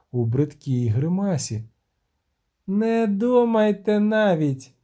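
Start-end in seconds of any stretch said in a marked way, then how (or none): 2.7-4.7 piercing cry. Acted. The siren shrieks a warning at the humans, piercing and slow. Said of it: "крикнула вона пронизливо".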